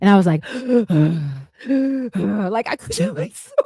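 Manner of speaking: breathless, gasping voice. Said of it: "put my hand up against the wall".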